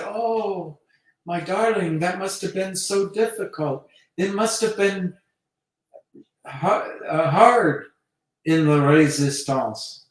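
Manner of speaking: high, cooing imitation of a lover; sympathetic woman. Woman consoling her French Resistance hero, hammed-up sympathy. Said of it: "And she said".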